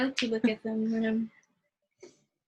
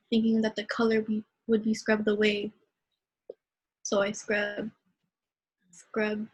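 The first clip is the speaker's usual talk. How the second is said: poem recitation. Acted. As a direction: let the last scrubs fade away. Poem ending fading.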